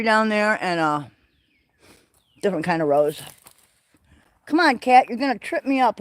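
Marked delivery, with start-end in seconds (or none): 4.4-6.0 calling to the cat. Real, not acted. Cat underfoot on the path.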